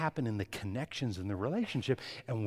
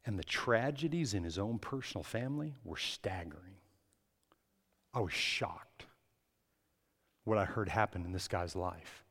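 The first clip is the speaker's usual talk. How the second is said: whisper; 4 semitones lower, 4 dB quieter than usual. Real, not acted. Hushed telling of tragedy.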